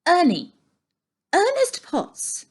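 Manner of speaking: loud, high shout of his name; yelling. A narrator's reading. Annie yelling in Ernie's ear to get his attention. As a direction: yell right into his ear. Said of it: "yelled in his ear".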